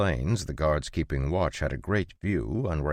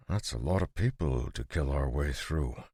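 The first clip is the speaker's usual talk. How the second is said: lightly; 4 dB quieter than usual. A narrator's reading. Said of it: "John said lightly".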